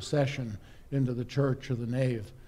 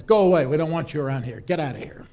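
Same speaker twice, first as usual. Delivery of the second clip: angry shout; 5 dB louder, faster than usual. Acted. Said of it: "And the guy says".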